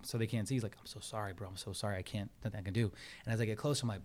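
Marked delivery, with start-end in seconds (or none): 0.8-2.9 imitated whisper. Tow driver secretly apologizing to car owner, imitated whisper. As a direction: keep it secret, softly under the voice. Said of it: "whispering to me".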